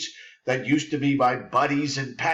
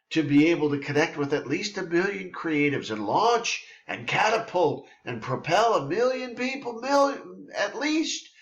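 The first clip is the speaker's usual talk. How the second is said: rising higher and higher with zest; zestful; 4 semitones higher than usual. Real, not acted. Host sharing his personal quest with listeners, zestful. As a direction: build excitement, pitch climbing phrase by phrase. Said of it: "I'm filled with zest about it".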